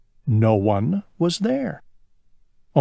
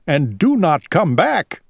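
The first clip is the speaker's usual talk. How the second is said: calling out; 4 semitones higher than usual. Acted. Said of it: "called Owl".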